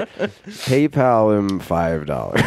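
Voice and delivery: laughing, slow low voice; slow low impression. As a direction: drag it out low while laughing. Imitating friend, laughing.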